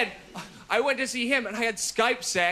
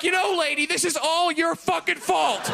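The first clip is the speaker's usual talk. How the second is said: raised-pitch accusing rant; mock blaming; 5 semitones higher than usual. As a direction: lay the blame on her, pitched up. Imagined spiteful blaming of the lady.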